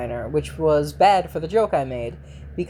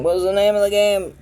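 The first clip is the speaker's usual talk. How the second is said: pitched up, loud and frustrated; high strained voice; 5 semitones higher, 5 dB louder than usual. Real, not acted. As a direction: squeak it out in frustration. Frustrated search for game name.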